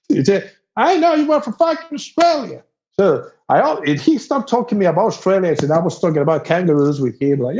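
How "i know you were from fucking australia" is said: high, gloating cry; triumphant redneck. Retold or imitated. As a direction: gloat like you knew it all along. Repeats local's triumphant line.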